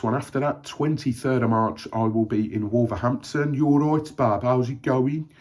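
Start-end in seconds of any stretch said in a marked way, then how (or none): 3.5-5.3 playful Black Country greeting, pitch lifted; Black Country accent. Retold or imitated. Runner greeting viewers in a friendly Black Country accent. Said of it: "I'm allowed to do that accent".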